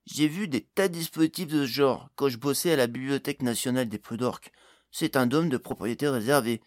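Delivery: lightly voiced gnome expert; lively gnome character voice; explaining gnome.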